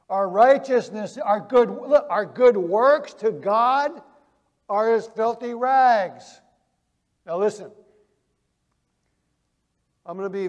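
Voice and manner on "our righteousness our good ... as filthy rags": emphatic preaching. Acted. Preacher hammering home the verse.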